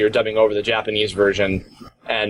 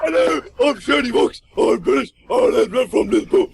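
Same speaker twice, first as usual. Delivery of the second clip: British impression; 10 semitones higher than usual. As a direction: ham up a Liverpool Brit. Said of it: "your impression of my impression".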